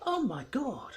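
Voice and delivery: high shrieked oh my God; a sudden high shocked squeal; mock panic as a dog attacks Banjo; mock alarm. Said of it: "it was like".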